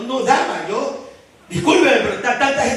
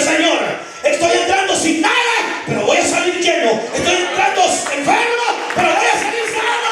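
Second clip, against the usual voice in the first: praying aloud; 5 semitones higher than usual. Pretend. Voicing a believer's prayer at the door.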